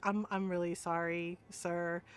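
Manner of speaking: low, soft, sheepish sorry; embarrassed apology. Retold or imitated. Niece apologising to the priest, sheepish and subdued. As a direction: replay a mortified murmur, halting.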